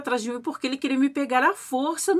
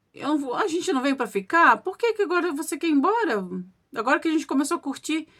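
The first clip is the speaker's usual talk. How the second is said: raised pitch, speeding up into complaint; mild acted protest; 5 semitones higher, faster than usual. Wife refusing to leave with her husband, mildly protesting. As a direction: act out an objecting wife.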